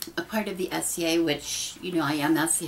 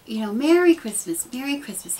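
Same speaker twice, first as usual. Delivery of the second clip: heartfelt greeting; 5 semitones higher, 5 dB louder than usual. Retold or imitated. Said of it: "I said from the heart".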